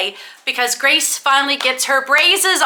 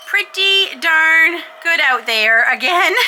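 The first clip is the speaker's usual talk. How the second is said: laughing; 6 semitones higher, slower than usual. Real, not acted. Delighted at falling snow.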